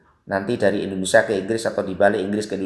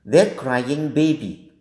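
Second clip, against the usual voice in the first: slow English example; 3 semitones higher, much slower than usual. Shown as a demonstration. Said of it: "The next number five".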